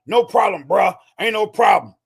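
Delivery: casual bro brush-off, all bravado. Retold or imitated. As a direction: play the tough vet who insists he's fine. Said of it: "'Cause vets lie so much".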